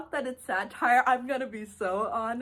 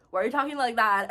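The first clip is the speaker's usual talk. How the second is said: mock mocking; 6 dB louder, faster than usual. Retold relatives mocking, louder repeat.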